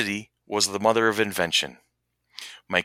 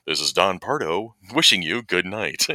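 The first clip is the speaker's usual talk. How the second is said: Don Pardo; 2 semitones lower, 3 dB quieter than usual. Pretend. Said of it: "I can do my own damn voice".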